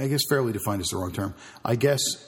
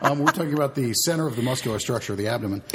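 laughing; 4 semitones higher, 4 dB louder than usual. Real, not acted. Joke about cocaine, laughing.

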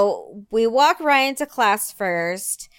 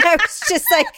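fast, high words broken by laughter; laughing; 14 semitones higher, 7 dB louder, faster than usual. Real, not acted. Mother laughing while retelling her outburst. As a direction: laugh through the line. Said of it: "laughing through retelling".

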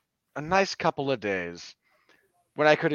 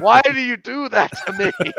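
laughing protest, pitched up; 10 semitones higher, 8 dB louder than usual. Real, not acted. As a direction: whine it through real laughter. Teased about the CGI.

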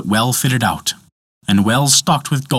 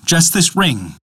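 begging dwarf; 5 semitones higher, slower than usual. A narrator's reading. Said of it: "begged Andvari".

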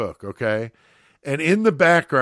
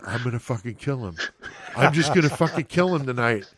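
muttering threat; faster than usual. Retold or imitated. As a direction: grumble it under your breath. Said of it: "Black and Curly is going".

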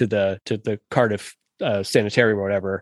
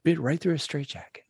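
a light Cockney police inspector; Cockney accent; 5 semitones higher, 7 dB quieter than usual. Retold or imitated. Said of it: "the inspector has these great lines".

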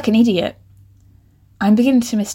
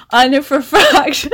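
louder, higher, talking through laughter; laughing; 5 semitones higher, 5 dB louder than usual. Real, not acted. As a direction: struggle to speak through real laughter. Laughing at own typo.

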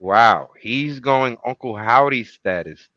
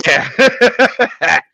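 excited; 9 semitones higher, 6 dB louder than usual. Pretend. Mock hype reply.

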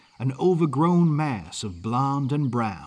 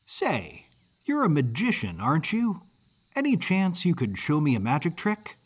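lightly voiced hopeful kid, rising question; a touch of boyish curiosity; curious Yankee boy; 4 semitones higher than usual. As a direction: ask like an eager young Northerner. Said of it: "accent of a mid-Atlantic Yankee".

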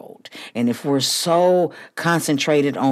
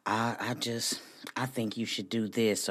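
softer, hesitant whispered mimicry; timid whisper; 4 semitones lower, 12 dB quieter than usual. Host mimicking a hesitant person shaming you, whispered. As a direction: imitate someone meekly shaming you. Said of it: "shame you into thinking".

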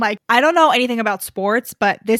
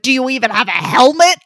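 louder, mock-upset scolding question; stern brunch daddy; 5 dB louder than usual. Host imitating Adam asking about the helmet, mock stern. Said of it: "Stern, stern brunch daddy gets upset".

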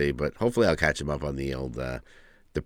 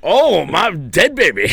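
mock wail; 12 semitones higher, 9 dB louder, slower than usual. Mock loud lament.

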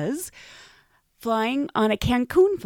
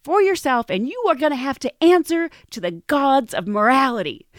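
mock stern scolding; 4 semitones higher than usual. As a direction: scold him with righteous outrage. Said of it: "She's like".

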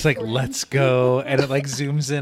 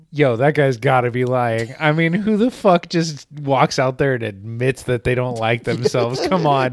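louder, mocking disbelief; incredulous guys; 3 semitones higher, 6 dB louder than usual. Two guys doubting the self-hating answer, loud and mocking. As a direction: call him out loudly, half-joking. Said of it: "the other two guys are like".

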